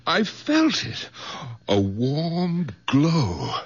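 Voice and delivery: slow, hushed wonder; slow awed hush. Acted. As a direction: savour the feeling. Awed at feeling warmth.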